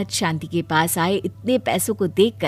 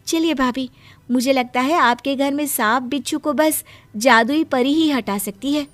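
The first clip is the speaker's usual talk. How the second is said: higher-pitched, earnest advice; helpful young wife; 4 semitones higher, 3 dB louder than usual. Acted. Wife advising her sister-in-law about snakes, earnest. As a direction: urge her to come along.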